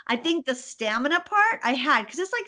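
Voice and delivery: normal talking voice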